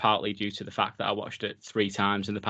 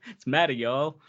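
put-on meta said like madda with y'all in a joking, lightly done American accent; mock American accent; 3 semitones higher than usual. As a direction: ham up a Southern American y'all, half laughing. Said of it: "Your American accent makes me laugh".

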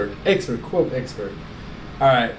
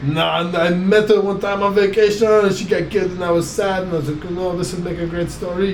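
lightly put-on French accent, sheepish confession; a mock French confession in a French accent. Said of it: "Your French accent is on, on point".

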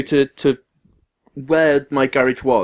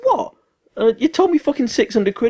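retold shocked outrage; 14 semitones higher than usual. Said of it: "And I was like".

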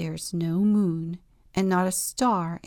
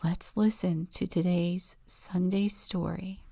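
whispering. A narrator's reading. Whispered story intro.

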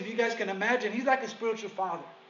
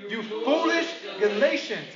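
stern rebuke. Shown as a demonstration. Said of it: "Read it the way he wrote it".

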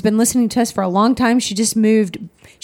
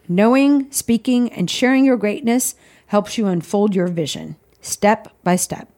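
reading aloud. Acted. Reads devotional aloud.

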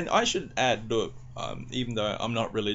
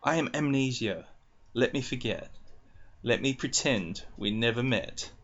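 poem reading. Acted.

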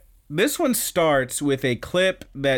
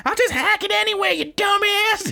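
high, fast squeaky taunt. Retold or imitated. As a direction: sneer it as she leaves. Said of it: "She's like".

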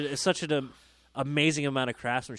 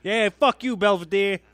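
higher, louder mock tough-guy line; mock defiant shout; 6 semitones higher, 7 dB louder than usual. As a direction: yell it like a defiant movie kid.

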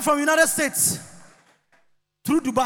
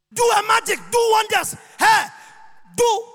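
mock demand; 5 semitones higher than usual. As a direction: jeer for a trick. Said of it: "mocking demand".

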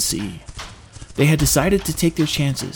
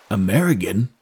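puzzled sailor; 4 semitones lower than usual. Acted. Sailor baffled by an unknown country, puzzled. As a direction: repeat AMERICAN as a foreign word, rising at the end.

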